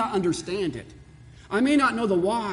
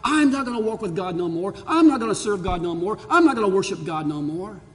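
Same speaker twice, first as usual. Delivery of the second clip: rising, louder defiant refusal; bitter quoted complaint; 3 semitones higher, 5 dB louder than usual. Retold or imitated. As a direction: throw it out like someone quitting on God. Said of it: "I know people who have said".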